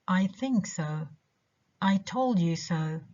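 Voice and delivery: "think" and "told" stressed, "so" unstressed; stress on the verbs. Shown as a demonstration. Teacher showing "so" after a verb, stressing "think" and "told". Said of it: "the two verbs think and told".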